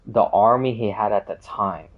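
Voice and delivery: talking through hiccups. Real, not acted. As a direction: catch the words on a hiccup. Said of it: "I was hiccuping".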